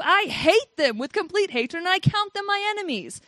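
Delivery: fierce rampage reading. Acted. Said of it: "it goes on to this, like, rampage".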